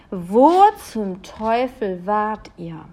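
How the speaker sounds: loud, slow, alarmed parents' cry; angry worried shout; shouting in chorus. A narrator's reading. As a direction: call out sharply in shock. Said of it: "riefen die beiden im Chor".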